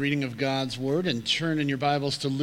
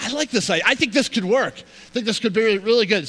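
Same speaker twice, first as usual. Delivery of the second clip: eager husband; 4 semitones higher, 4 dB louder, faster than usual. Retold or imitated. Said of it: "And he's like".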